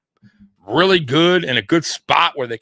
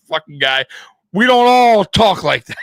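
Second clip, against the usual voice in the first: annoyed Californian; 5 semitones higher, 4 dB louder than usual. Pretend. Californians scolding the host.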